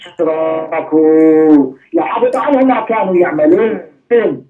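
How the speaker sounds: swift melodic tajweed recitation of the verse; Quran recitation. Real, not acted. Preacher reciting the verse to the congregation, melodic tajweed. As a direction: recite it in flowing tajweed, quickly.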